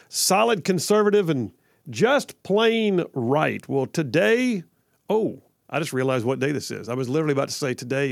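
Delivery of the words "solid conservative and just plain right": a light imitation of the jingle announcer, with a drawn-out plain right; echoing the promo voice. Host repeats the station promo, lightly mimicking the announcer. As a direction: echo the promo tagline, slowing way down at the end. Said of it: "like the dude just said".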